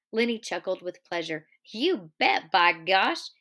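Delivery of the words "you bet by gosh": happy. A narrator's reading. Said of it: "he cried happily".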